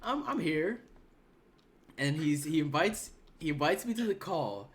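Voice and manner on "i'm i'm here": eager yes. Retold or imitated. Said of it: "I'm like".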